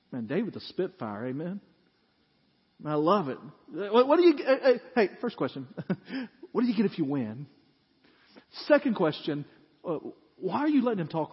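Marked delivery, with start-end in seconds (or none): 3.7-7.0 eager David. Acted. Preacher acts David calling out.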